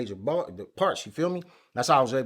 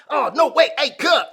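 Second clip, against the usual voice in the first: high, loud alarmed plea; high, loud pleading to the gunman; retold panic; 10 semitones higher, 5 dB louder than usual. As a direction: stop him fast, voice raised. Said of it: "I'm like".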